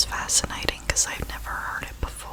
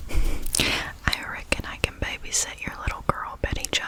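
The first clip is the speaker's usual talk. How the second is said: exaggerated Southern; 4 dB louder than usual. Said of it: "I'm just being extreme now".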